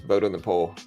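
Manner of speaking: ordinary delivery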